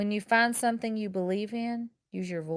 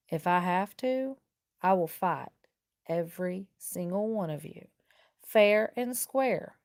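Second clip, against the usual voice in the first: calm and confident. Acted. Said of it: "calmly and confidently".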